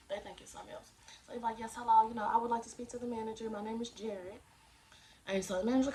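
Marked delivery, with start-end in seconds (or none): 1.6-4.4 lightly pitched-up phone voice; a hint of polite customer service. Shown as a demonstration. Applicant asking to speak to the manager, light customer service voice. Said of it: "put your customer service voice on".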